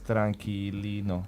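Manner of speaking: Mexican accent on tranquilino, tran rolled, li and no clipped; Mexican Spanish accent. Shown as a demonstration. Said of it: "for, uh, Mexican accent".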